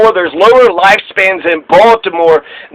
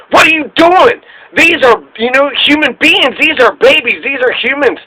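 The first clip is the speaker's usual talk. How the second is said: pitched much higher, mock yell at the official; retold yell; 6 semitones higher than usual. Congressman yelling at border chief, mock high-pitched yell. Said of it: "he just yells".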